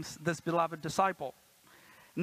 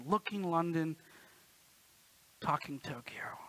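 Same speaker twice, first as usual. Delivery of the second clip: hushed taunt; 2 semitones lower, 4 dB quieter than usual. Retold or imitated. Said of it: "my friends would call me".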